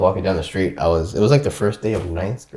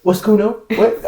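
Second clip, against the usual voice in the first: high, put-on Australian lilt; mock British-Australian accent; 13 semitones higher than usual. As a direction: replay the fake Australian bluff. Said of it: "I turned British, Australian".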